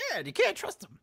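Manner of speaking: high, loud mock dad reply; hammed-up stubborn father; imitating father. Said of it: "and he's like".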